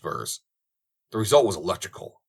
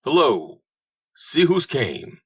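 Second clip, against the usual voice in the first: cheery hello; 6 semitones higher, 5 dB louder, much slower than usual. Acted. Greeting Bull arriving.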